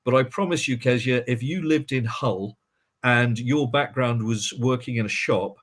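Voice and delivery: ordinary delivery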